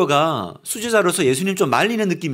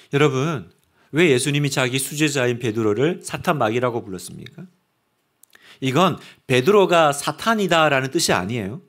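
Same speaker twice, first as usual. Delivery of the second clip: ordinary delivery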